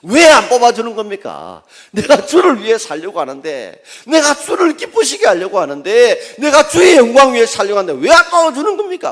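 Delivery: loud, high protesting prayer; talking back to God. Retold or imitated. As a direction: demand an answer from God. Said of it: "그 다음은 대듭니다".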